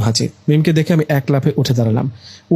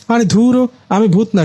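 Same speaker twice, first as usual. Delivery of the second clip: high, exasperated cry of denial; sharp high denial; exasperated protest; 8 semitones higher than usual. Acted. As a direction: brush him off, fed up and pitched up. Girl protests she is no ghost.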